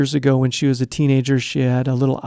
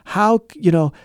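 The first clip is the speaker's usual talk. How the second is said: accusing parent; 3 semitones higher than usual. Retold or imitated. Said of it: "I came at her all guns blazing".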